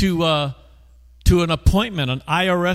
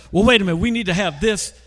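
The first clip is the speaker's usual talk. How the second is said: flustered clerk; 4 semitones higher, faster than usual. Retold or imitated. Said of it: "She got all confused".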